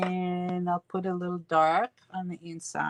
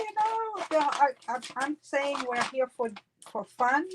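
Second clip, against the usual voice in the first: mumbling; 3 semitones higher than usual. Real, not acted. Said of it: "I'm mumbling because I'm looking for the cat".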